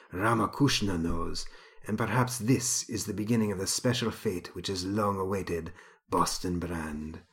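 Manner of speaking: mystic guru. Acted. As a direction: hush it like a prophecy. Mystic Vashnu speaks.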